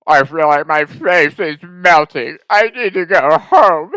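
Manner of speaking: slow, whiny voice; mock panicked friend. Older brother tripping at the bar, mock panicked whine. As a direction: play the freaked-out older brother.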